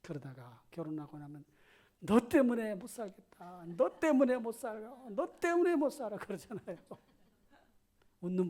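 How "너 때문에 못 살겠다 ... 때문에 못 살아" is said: exasperated spouse. Retold or imitated. Married couple complaining.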